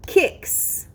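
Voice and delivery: Kicks whispered, with a crisp final s; whispered word model. Shown as a demonstration. Teacher whispering the word to the class. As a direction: breathe Kicks, hissing out the s. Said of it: "The next word is kicks".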